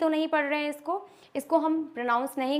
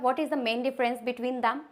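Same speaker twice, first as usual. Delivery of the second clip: very slow, stressing each word; slow teacher question; slow deliberate question; much slower than usual. Shown as a demonstration. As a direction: ask it word by word. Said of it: "मैंने पहले वाला जो बताया था".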